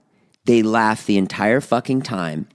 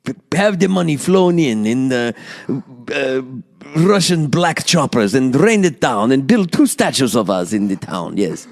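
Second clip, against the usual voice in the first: playful fake Russian Slovak accent; hammy Eastern European accent, Russian Slovak. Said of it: "That is my Russian Slovak accent".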